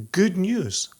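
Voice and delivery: put-on posh old Hollywood "good news"; "good news" in a mid-Atlantic film-star voice; transatlantic accent. Shown as a demonstration. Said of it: "I wanna make sure I'm pronouncing this correctly".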